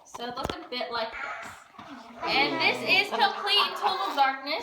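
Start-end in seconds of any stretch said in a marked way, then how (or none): 2.2-4.6 echoing in a dark cave. Real, not acted. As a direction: voice ringing off stone walls. Guide in total darkness.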